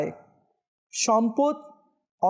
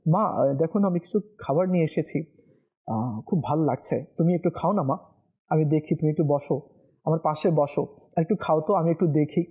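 tender son; 5 semitones lower, faster than usual. Shown as a demonstration. Preacher voicing a son feeding his mother, tender and coaxing. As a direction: coax mother tenderly to eat. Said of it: "মাকেও সেটা খাওয়াতে হবে".

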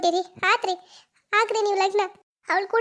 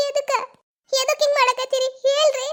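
angry demand; 3 semitones higher than usual. Acted. Girl shouting at her lover for the betrayal. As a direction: insist he explain.

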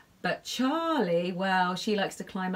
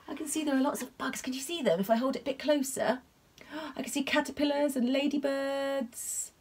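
excited; 5 semitones higher than usual. Real, not acted. Excited look at bugs in picture.

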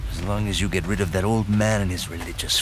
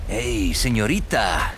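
flirty; slower than usual. Acted. Flirting with a lady agent.

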